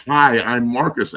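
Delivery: slow, halting "Hi, I'm Marcus"; mock stammer. Sober stutterer in the film meeting room, in a slow halting mock stammer. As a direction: stumble through "Hi, I'm Marcus" as if stuck on it. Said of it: "you sound like fucking Rico Suave".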